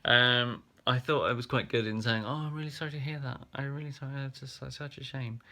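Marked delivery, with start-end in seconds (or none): 2.2-5.4 higher, softer show of condolence; put-on sympathy. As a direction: say sorry gently without really feeling it. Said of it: "I'm just saying it. I'm not feeling it".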